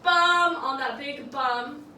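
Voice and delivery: sudden shouted beat cue; loud accent hit. Shown as a demonstration. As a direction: belt out a sudden loud "Bum". Dramatic beat in the choreography.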